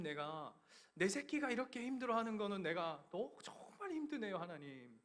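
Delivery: missionary father crying out to God in anguish; anguished prayer. Retold or imitated. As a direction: pour out a father's heartbreak.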